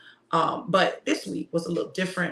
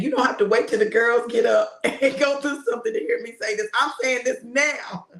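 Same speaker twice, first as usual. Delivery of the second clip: higher, louder insistence; emphatic insistence; 5 semitones higher, 4 dB louder than usual. Retold or imitated. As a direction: daughter insisting she says it now. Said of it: "so she said".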